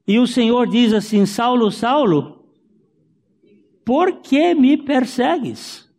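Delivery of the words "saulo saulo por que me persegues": high, ringing call of the Lord, slow at the end. Acted. Preacher voicing the Lord calling Saulo, raised and high.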